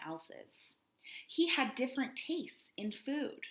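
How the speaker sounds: put-on reading a picture book to children; lively read-aloud storytelling; story narration. A narrator's reading. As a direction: tell it like a storybook to kids. Teacher reads story aloud.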